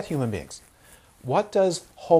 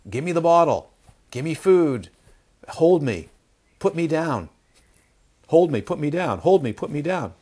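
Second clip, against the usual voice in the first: insistent mock-demanding baby, a bit louder; 3 semitones higher, 6 dB louder than usual. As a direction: demand it like a fussy baby, mildly raised. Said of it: "it screams".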